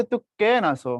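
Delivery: তু কেন আছো with the Chittagong lilt; a lightly done Chittagong greeting; Chittagong accent. Shown as a demonstration. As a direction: ask it like a Chittagong local. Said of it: "চট্টগ্রামের ভাষা হচ্ছে".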